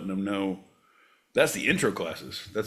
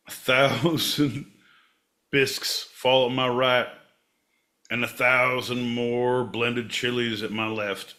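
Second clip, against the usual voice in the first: mock scripture reading. Reciting a chowder psalm to John, mock-solemn. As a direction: intone it like scripture about soup.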